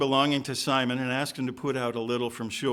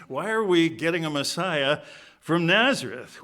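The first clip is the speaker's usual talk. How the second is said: louder, mock-indignant questioning; scornful disbelief; 3 semitones higher, 5 dB louder than usual. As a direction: complain in acted disbelief. Voicing Nathanael's disbelief at Nazareth.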